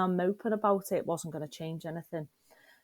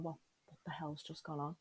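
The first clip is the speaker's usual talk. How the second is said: imitating fear; 9 dB quieter than usual. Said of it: "in total fear".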